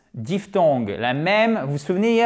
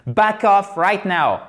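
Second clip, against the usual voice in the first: mock stern warning; 4 semitones higher, 4 dB louder, slower than usual. Acting a hostile warning.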